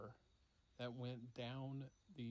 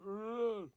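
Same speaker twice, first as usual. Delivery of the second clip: loud, high creature groan; sudden loud wordless moan; monster groan; 10 semitones higher, 12 dB louder than usual. Retold or imitated. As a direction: imitate a muffled monster's moan. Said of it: "And then, like, a".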